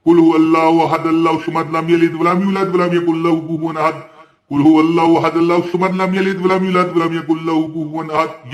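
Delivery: showing exactly how to recite, ten times; Quran recitation demo. Shown as a demonstration. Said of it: "इसी तरह जिस तरह मैंने पढ़ा".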